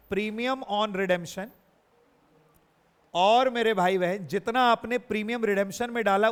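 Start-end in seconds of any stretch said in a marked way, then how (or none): 0.1-1.5 "premium on redemption" said very slowly, each word apart; slow dictation. Shown as a demonstration. Teacher dictating the entry for students, very slowly. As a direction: stretch it out for the class to note down. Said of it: "गलत entry बोले जा रही है".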